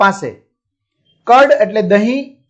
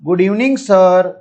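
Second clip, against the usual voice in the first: Rupesh greeting slowly; much slower than usual. Acted. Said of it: "Rupesh શું કે છે?".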